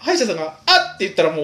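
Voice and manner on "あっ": surprised gasp. Retold or imitated. Dentist's slip, acted out.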